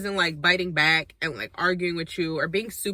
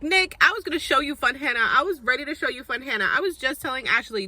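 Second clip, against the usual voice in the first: higher, whiny mock of Hannah; 6 semitones higher than usual. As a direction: ham up her pleading. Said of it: "and so she's like".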